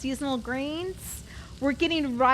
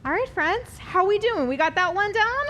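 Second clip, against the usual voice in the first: upbeat host; 6 semitones higher, 3 dB louder than usual. Real, not acted. Host addresses the audience.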